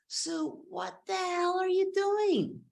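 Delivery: high-pitched, incredulous outburst; imitating an alarmed boss; shocked boss. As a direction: demand an explanation in a high, strained voice. Retold boss demanding an explanation.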